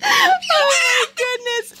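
high, slow, amazed outburst; real surprise; amazed exclaim. Real, not acted. Baby dancing wildly, surprised.

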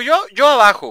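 high, loud cartoon golem; a goofy golem voice claiming the bottom. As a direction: squeal it like a dumb golem. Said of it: "Ya dijo".

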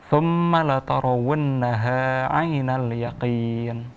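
slow, measured tartil recitation; Quran recitation. Shown as a demonstration. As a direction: recite slowly for a child to repeat. Teacher recites for pupil.

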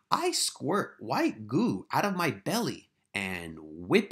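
breathy, unvoiced little bug whisper; spittlebug whisper. Teacher reading the spittlebug's line to the class in a slow whisper. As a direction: whisper it slowly like a sneaky bug. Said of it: "change your voice for the characters".

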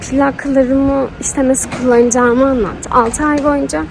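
lisping with new retainers; wearing a retainer. Real, not acted. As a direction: talk through fresh retainer plates. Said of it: "peltek konuşuyorum ve konuşmam çok zor".

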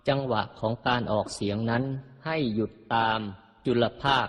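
ordinary talk, nothing marked

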